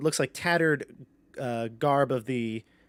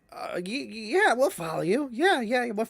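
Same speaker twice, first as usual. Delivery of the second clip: nervous kobolds; 9 semitones higher than usual. Acted. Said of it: "The kobolds are like".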